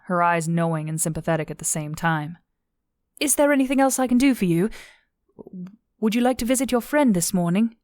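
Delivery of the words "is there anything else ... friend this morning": high, eager-to-help character voice; eager helpful Zandy. A narrator's reading. Zandy following the upset cadet, high and solicitous.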